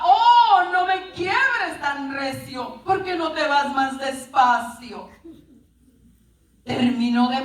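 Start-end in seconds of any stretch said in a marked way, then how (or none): 0.0-5.1 mock cry of protest. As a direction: open on a pained cry, then settle back. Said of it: "Y, y gritaba".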